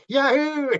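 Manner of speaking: a high, loud whoop of joy; gleeful yahoo. Retold or imitated. Spirit guide on a roller coaster cheering, whooping with joy. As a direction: ride it like a thrilled kid on a coaster. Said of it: "just going".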